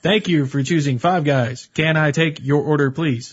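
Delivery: overly polite scripted cashier; stiff cashier voice. Retold or imitated. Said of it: "The next four people that order".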